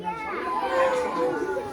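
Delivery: very high sing-song question; excited ask. Real, not acted. Teacher asking children, very high sing-song.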